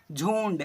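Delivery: झुंड said as jhoond, with a clear n; pronounced with anusvara. Shown as a demonstration. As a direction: sound the nasal before d in झुंड. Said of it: "ऐसे पढ़ेंगे". (झुंड में अनुस्वार का साफ़ उच्चारण)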